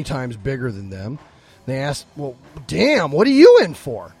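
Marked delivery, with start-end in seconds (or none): 2.2-4.1 astonished question. Acted. Small dogs ask the huge Great Dane, astonished. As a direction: play the impressed little dog sizing up a giant.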